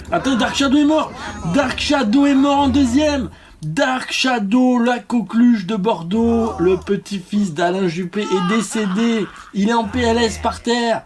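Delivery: high-pitched, drawn-out commentator cry; dramatic death announcement. Pretend. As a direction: proclaim the death as a national catastrophe. (annonce dramatique, voix aiguë de commentateur)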